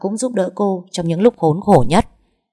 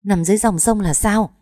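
puzzled question; 4 semitones higher than usual. Acted. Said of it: "khó hiểu hỏi lại".

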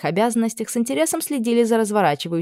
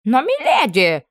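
higher, slow pleading whine; whining protest; 6 semitones higher, 4 dB louder, slower than usual. Acted. Camp cook protesting to Anna, whining. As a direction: drag out the plea.

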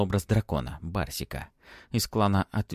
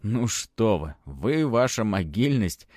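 faint irony. Acted. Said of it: "с едва заметной иронией".

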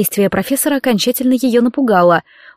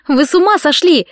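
shouting; 5 semitones higher than usual. Acted. Kathryn, slung over his shoulder, shouts at the professor. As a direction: yell it at him in alarm. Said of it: "закричала Кэтрин".

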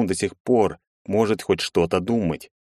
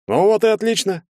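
much higher, louder happy exclamation; delighted; 14 semitones higher, 4 dB louder than usual. A narrator's reading. Bartynov cheers the plan to drink more. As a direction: exclaim with glee. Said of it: "обрадовался Бартынов".

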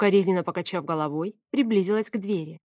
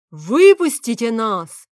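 slow, much louder shouted demand; furious shout; 4 semitones higher, 10 dB louder, slower than usual. A narrator's reading. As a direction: bellow it through the door. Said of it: "вновь закричал Фавий".

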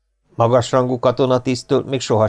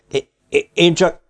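stuttering, timid excuse; halting and intimidated; frightened stammer; 7 semitones higher than usual. A narrator's reading. Cowed sergeant tries to explain.

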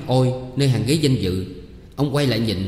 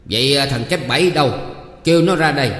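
raised, louder, demanding voice; shouted order; 4 semitones higher, 5 dB louder than usual. Acted. Village official yelling at the troupe, loud and demanding. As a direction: bark it out for Kép Bảy to come forward. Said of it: "quát lên".

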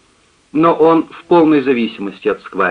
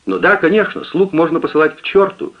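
higher, hurt and huffy maid; offended; 8 semitones higher than usual. A narrator's reading. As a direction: take offence like a wounded servant. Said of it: "обиделась Гонора".

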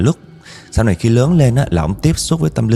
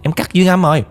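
cocky, blunt boast; 5 semitones higher than usual. Retold or imitated. Trainee boasts to the women she fears no ghosts, cocky. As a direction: imitate a fearless boast, pitched higher. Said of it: "Nói mà nghe thẳng miệng vậy đó".

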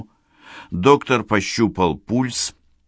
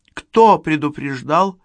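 high, slow, alarmed question; alarmed young woman; 9 semitones higher, 5 dB louder than usual. Acted. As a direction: ask in alarm. Yulia asking.

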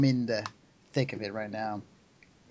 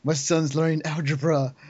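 higher, louder mock wail; mock crying; 4 semitones higher, 5 dB louder than usual. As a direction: imitate a tearful, overwhelmed parent. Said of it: "like, crying".

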